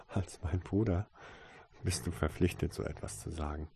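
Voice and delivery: soft, mildly amused teasing; good-natured. A narrator's reading. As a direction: chide gently after a small laugh. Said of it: "lachte sie gutmütig".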